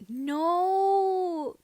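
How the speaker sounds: high, loud anguished no; frustrated no. A narrator's reading. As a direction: wail it in frustration. Frustrated reply to the takeoff question.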